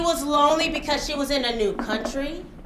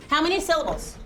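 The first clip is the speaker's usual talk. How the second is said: usual speaking voice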